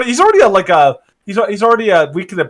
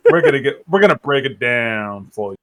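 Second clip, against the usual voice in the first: smooth jazz DJ; 6 semitones lower than usual. Pretend. Playing a jazz radio host.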